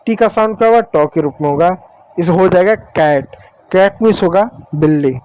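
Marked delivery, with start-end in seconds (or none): 2.7-3.4 कैट with an open "ae" vowel; short-a pronunciation. Shown as a demonstration. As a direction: say कैट clearly as "kaet". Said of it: "इसलिए ए की मात्रा". (कैट में ऐ की मात्रा का उच्चारण)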